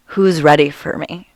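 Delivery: imitating a thick Icelandic accent. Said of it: "in this very thick Icelandic accent".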